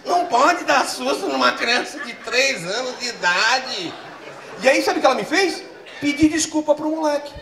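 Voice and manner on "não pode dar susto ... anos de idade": slow, lightly voiced scolding wife; a hint of the wife. Wife scolding husband about scaring their son, lightly voiced. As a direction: lecture him in her slow voice. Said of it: "É a voz da minha mulher".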